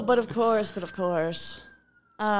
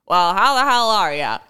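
louder hearty dad greeting; generic dad; 5 dB louder than usual. Retold or imitated. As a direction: boom it out like a jolly dad. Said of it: "or actually, it's a bit more like".

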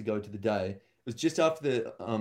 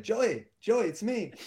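mock old woman reveal; 10 semitones higher, slower than usual. Old woman surprise reveal on stage.

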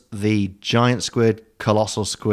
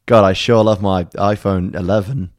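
clickbait video narrator; 6 dB louder than usual. Pretend. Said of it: "the other one would say something awful like".

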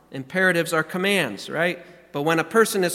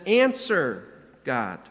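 begging; 3 semitones lower, slower than usual. Retold or imitated. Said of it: "He's begging".

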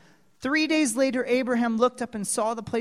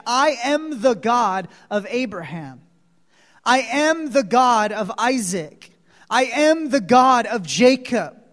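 growing louder each line; God naming himself after the patriarchs; building proclamation; 5 dB louder than usual. Acted. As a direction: build the declaration. Quoting God building generation by generation.

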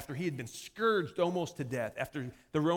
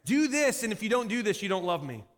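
high, bossy kid, lightly voiced; a hint of a child laying down an ultimatum; demanding child; 4 semitones higher, 4 dB louder than usual. Child making demands of parents, lightly voiced bossy pout. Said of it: "almost like a child who tells their parents".

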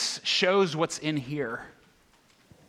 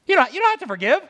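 higher, louder insistent declaration; emphatic; 11 semitones higher, 7 dB louder, much faster than usual. Real, not acted. Preacher driving home the point to listeners, emphatic and louder. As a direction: press the point hard on the congregation. Emphatic repeat of key line.

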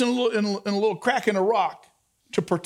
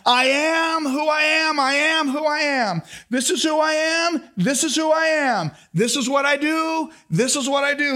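booming divine proclamation; 4 semitones higher than usual. Acted. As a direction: proclaim each line like God's own name. God proclaiming his name.

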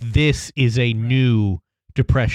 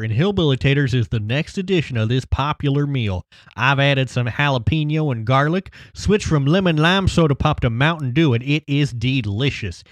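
light hillbilly voice read. Retold or imitated. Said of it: "read the copy of this article in my hillbilly voice".

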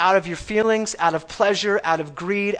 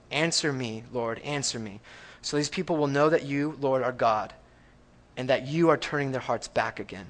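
hushed prayer; 4 semitones lower, 6 dB quieter than usual. Acted. Elijah's quiet prayer to God.

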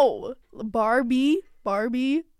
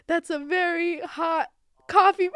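A rapper's quote; 5 semitones higher than usual. Retold or imitated. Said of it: "What does the rapper say?".

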